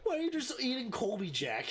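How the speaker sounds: high, incredulous and amused; amused disbelief. Real, not acted. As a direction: ask it still tickled from laughing. Amused at friend's odd snack.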